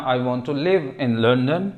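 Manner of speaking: slow, careful read of the whole sentence; slow model sentence. Shown as a demonstration. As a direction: spell it out slowly for learners. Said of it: "लिव, रहना". (धीमे से पूरा वाक्य)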